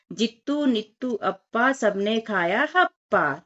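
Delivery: slow, sing-song rhyme reading; rhyme recitation. Shown as a demonstration. Teacher reciting a fun rhyme to children, slow and sing-song. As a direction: recite the rhyme slowly so the children can follow. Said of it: "बहुत ही मजा आता है बोलने में".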